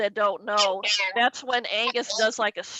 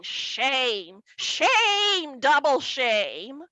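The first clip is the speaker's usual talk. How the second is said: scolding dad; much slower than usual. Retold or imitated. Dad scolding daughter in the car, sing-song. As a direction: chant the shame like a scold.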